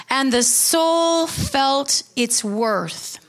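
slow, hushed and savoured; reverent hymn quote. Acted. Pastor savouring a hymn line for the congregation, slow and reverent. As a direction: linger over each word of the hymn.

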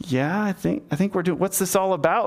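faltering reply breaking into a puzzled question; awkward puzzlement. Retold or imitated. Uriah puzzled by David's small talk, awkwardly questioning. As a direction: start to answer, then give up, mildly baffled. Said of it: "that whole encounter being really awkward".

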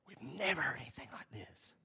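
hushed, amazed crowd murmuring; breathless whisper of wonder; awed whisper. Retold or imitated. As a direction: whisper it in awe, voiceless.

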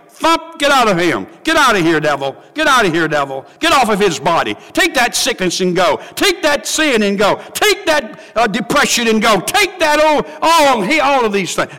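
repeated stern orders, building; commanding rebuke. Acted. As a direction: cast the devil out with authority. God rebuking the devil.

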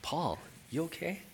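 soft, tentative check on an angry man; cautious concern. Acted. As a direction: ask gingerly, half amused. Gently checking on an angry Paul.

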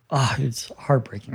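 almost lose your voice on it; whisper. Real, not acted. Moved recalling grandmother's words.

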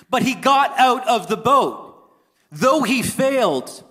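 drawn-out, emphatic projection to the room. Real, not acted. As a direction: proclaim it slowly, voice lifted. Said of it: "why am I shouting at you?".

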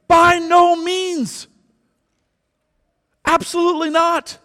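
emphatic denial. Real, not acted. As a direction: hammer home no as preacher to congregation, emphatic. Emphatic answer to objection.

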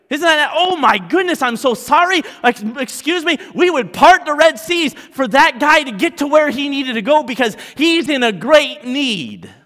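loud, high, driving sermon climax; full-force preaching. Acted. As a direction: preach it with rising fire, pushing hard.

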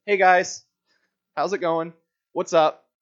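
underwhelming hello; casual greeting. Retold or imitated. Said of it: "a lot more than".

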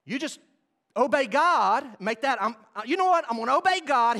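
resolve it with fire; fervent declaration. Pretend. Preacher voicing a believer's resolve, fervent.

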